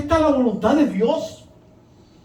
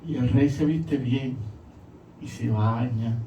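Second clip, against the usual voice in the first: hushed and slow; 10 semitones lower, 8 dB quieter, slower than usual. Real, not acted. Tender retelling of David's acceptance.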